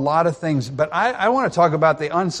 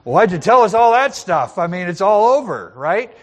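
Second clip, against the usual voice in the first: mock complaint; 3 semitones higher, 4 dB louder than usual. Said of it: "it'd be like".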